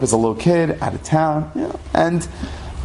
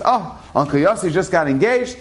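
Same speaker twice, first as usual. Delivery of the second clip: excited father; 5 semitones higher than usual. Retold or imitated. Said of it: "my father was so excited".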